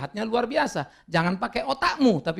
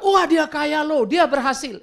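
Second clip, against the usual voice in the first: admiring worldly talk; 8 semitones higher, 5 dB louder, slower than usual. Retold or imitated. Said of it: "itu bahasa bumi".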